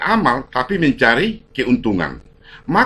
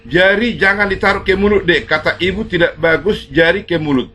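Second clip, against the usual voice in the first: menegur anak; 4 semitones higher than usual. Real, not acted. Menegur anak kecil di rumah.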